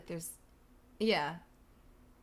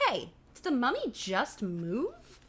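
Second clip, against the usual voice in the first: startled question; 4 semitones higher, slower than usual. Acted. Acted startled line from story.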